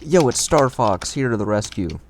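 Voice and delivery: hero entrance. Pretend. Hero arrival voice.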